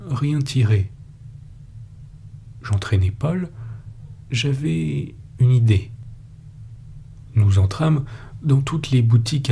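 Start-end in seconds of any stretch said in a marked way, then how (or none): none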